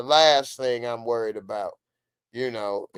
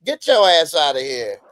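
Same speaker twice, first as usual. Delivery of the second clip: loud play-acted eviction; hammed-up indignant order; mock angry dismissal; 3 semitones higher, 6 dB louder than usual. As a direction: throw them out with raised voice. Acts out throwing someone out.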